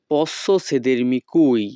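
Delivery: each Italian word spaced out very slowly; slow teaching model. Shown as a demonstration. Teacher models Italian phrase for students, very slow. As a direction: spell it out slowly for learners to copy. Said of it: "Italian ভাষা".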